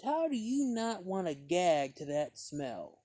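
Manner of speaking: retch-tinged complaint; lightly voiced appalled woman; disgusted lady. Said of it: "she goes".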